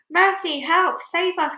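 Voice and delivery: high, loud panicked cry; shrill-free high loud plea for mercy; cried for help. A narrator's reading. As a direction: scream for rescue. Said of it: "cried the ladybird".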